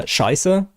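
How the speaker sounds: Scheiße with a sharp German sch and rising end; German word Scheiße. Shown as a demonstration. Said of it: "the German word".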